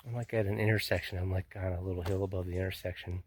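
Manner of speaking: breathless after a hike; panting between words; out of breath. Real, not acted. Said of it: "that's why I'm out of breath".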